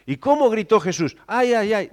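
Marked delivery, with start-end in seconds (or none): 1.3-1.9 mild mock whimper. Shown as a demonstration. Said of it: "No, no, gritos de dolor".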